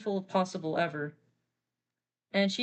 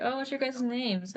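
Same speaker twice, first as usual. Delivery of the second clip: sad scientist; 5 semitones higher than usual. Acted. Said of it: "She's obviously really sad".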